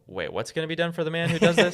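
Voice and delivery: mock surprise at the reward; incredulous David. David asks in disbelief about the reward. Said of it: "And then David says".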